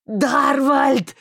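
loud call across the glade; shouted name. A narrator's reading. Marston calling the vanishing friend, loud cry. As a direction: call out to him.

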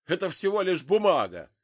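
loud, high angry cry; exclaiming. A narrator's reading. Father throws the leaflets at Zig, loud angry cry. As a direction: fling the words out with the leaflets. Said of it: "воскликнул он".

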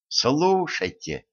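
slow, anxious plea; nervous call for attention; a hint of alarm; worried. A narrator's reading. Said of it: "заволновался Ганс".

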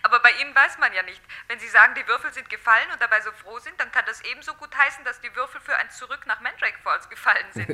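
excited chatter. Acted. Simonetta on the phone to Dietz, loud and excited. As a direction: bubble over with excitement.

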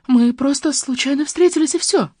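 high-pitched anxious excuse; scared, defensive woman's voice; frightened. A narrator's reading. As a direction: plead fearfully, voice climbing. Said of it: "Жанна испуганно прижала ладошки".

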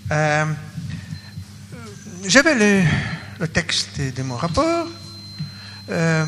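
Russian accent in French; hesitant French with a Russian accent; foreign accent in french. Real, not acted. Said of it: "excusez-moi mon français barbarian". (accent russe en français)

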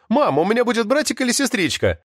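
high-pitched, playful question; amused teasing. A narrator's reading. Son finds it funny and asks mum, amused teasing. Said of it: "ему стало смешно".

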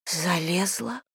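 soft, cracking disbelief; the voice breaks on the word; broken. A narrator's reading. Daughter repeats mother's accusation, soft and broken. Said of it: "надломленно произнесла Тиль".

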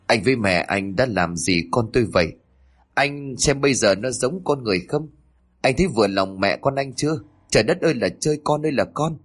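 a mother scolding her son-in-law in anger; angry scolding. Acted. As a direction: berate him for what happened to your daughter. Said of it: "tức giận mà chửi".

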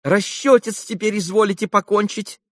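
высокий подобострастный голос приказчика; подскочить и угодливо напомнить о расчёте; угодливый приказчик. A narrator's reading. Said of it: "подскочил приказчик". (приказчик угодливо просит расчёт)

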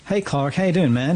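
lightly put-on American accent. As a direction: greet an old friend in a mock American accent. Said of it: "that was my U S accent".

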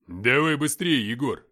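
loud, drawn-out call to hurry up; urgent call. Acted. Man hurries his comrade Егор, loud urgent call.

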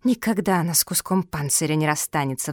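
lightly sighed, falling line; resigned sigh. Acted. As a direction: say it with mild resignation. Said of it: "вздохнула Белка".

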